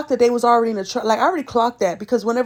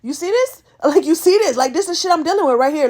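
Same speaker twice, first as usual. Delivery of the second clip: higher, laughing disbelief; 4 semitones higher than usual. Retold or imitated. To Melvin while the bartender screams, laughing. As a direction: laugh it off to your friend. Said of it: "and I'm laughing".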